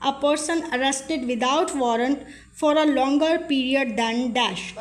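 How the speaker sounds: each word of the legal statement read out very slowly; slow dictation read. Shown as a demonstration. Tutor reading an exam question to students, slow dictation.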